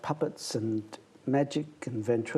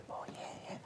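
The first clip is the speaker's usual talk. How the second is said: whisper; 18 dB quieter than usual. Retold or imitated. Kids answering eagerly, retold.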